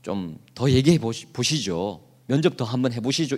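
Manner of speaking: lightly voiced father easing guests to the table; a hint of a polite host father; imitating Jesse. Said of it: "이랬던 것 같아요".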